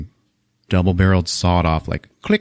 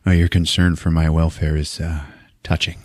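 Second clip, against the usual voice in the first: tag sarcastic; 4 semitones lower than usual. Retold or imitated. Stone disrespects chief with cigars.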